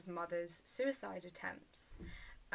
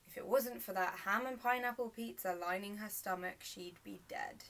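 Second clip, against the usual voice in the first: understated dramatic storytelling; naturalistic monologue. Acted. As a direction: recount it naturally, with weighted pauses.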